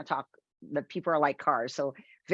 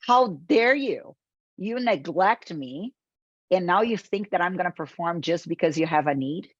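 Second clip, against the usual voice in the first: mock furious car scolding its driver; angry car voice. The neglected car scolds its careless driver, mock angry. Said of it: "my car will look at me and say".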